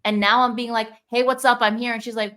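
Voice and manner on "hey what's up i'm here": higher and louder, breezy hello; a bright, chummy hey; breezy greeting. Retold or imitated. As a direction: pop in casually like nothing happened. Adult self greeting inner child.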